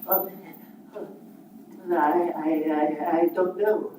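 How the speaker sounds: quiet stammering Scrooge; frightened old miser, stammering; playing both parts.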